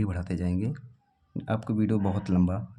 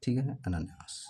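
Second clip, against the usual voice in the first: softly repeated; 3 semitones higher, 6 dB quieter than usual. Shown as a demonstration. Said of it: "शुद्ध है आपका".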